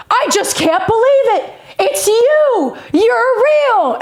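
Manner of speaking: high, gushing amazement; imitating starstruck fan. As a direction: mimic a fan overwhelmed at meeting an idol.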